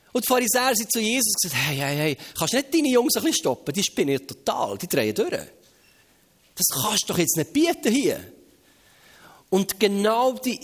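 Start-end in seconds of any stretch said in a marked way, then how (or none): 1.7-8.3 mildly acted indignant complaint; indignant Pharisees. Preacher plays Pharisees complaining to Jesus about his disciples, indignant. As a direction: protest to their leader, a touch of outrage. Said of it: "die Empörung".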